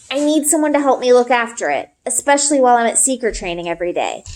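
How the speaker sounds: a hint of an earnest boy pleading to be believed; Ari, eager boy. Ari's voice in read story.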